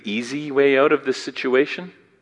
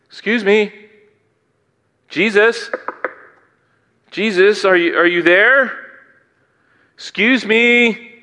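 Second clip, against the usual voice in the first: higher, mock-genteel timid asking; polite aristocratic begging; 7 semitones higher than usual. Preacher mocking the wrong kind of begging, prim and timid. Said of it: "This isn't the type of polite, aristocratic type of begging".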